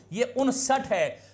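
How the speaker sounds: उनसठ said slowly, short a; teacher correcting उनसाठ to उनसठ; correct form. Shown as a demonstration. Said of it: "आप उनसाठ बोल देते हो".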